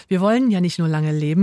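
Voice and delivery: "wollen" stressed against what is expected of us. Real, not acted. Host points out wanting versus having to, stress on "wollen". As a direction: lean on "wollen". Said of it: "mit Betonung auf wollen".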